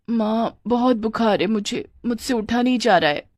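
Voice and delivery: weakly put-on sick voice; feigned illness. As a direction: play poorly to get out of chores. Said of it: "बीमारी का नाटक करके कहा". (बीमारी का नाटक करती आवाज़)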